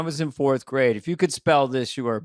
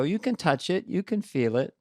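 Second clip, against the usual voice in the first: Biden impression; 4 semitones higher, 4 dB quieter than usual. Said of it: "I'm dressed as Biden".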